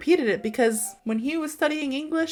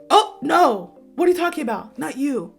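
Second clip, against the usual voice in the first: acted startled no, higher and louder at first; mock dismissal; 4 semitones higher, 5 dB louder than usual. Crush correcting her mistake, imitated startled denial. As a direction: imitate a baffled brush-off, easing down by the end. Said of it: "Like that".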